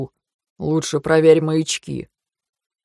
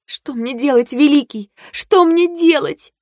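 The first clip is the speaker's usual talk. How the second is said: moaning; 7 semitones higher, slower than usual. Acted. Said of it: "простонала я тихо".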